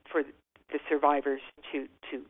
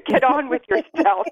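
higher, louder mock pep talk; mock brisk advice; 9 semitones higher, 8 dB louder than usual. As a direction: toss it off like a no-nonsense adviser. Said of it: "sort of like, well, you know".

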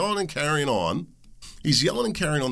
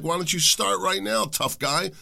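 challenging father; 7 semitones higher than usual. Retold or imitated. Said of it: "be like".

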